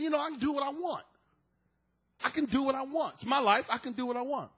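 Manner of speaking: defiant. Acted. Man answering God about his life, defiant. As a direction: brush off all authority lightly.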